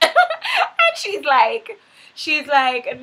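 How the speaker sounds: cracking up at own insult, drawn out; laughing. Real, not acted. Recapping Tommy's insult to Holly, breaking into laughter. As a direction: laugh through the punchline.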